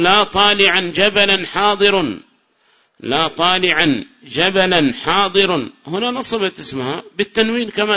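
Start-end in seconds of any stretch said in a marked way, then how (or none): 0.0-2.2 slow, measured example; slow teacher's reading; slow recital. Shown as a demonstration. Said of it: "recites example slowly". 3.0-5.7 slow, even repeat of the example; slow and steady repeat; slower repeat. Shown as a demonstration. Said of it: "repeats example slower".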